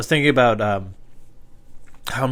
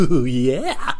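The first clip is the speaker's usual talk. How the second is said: laughing; 4 dB louder than usual. Real, not acted. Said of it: "how did I laugh like that?".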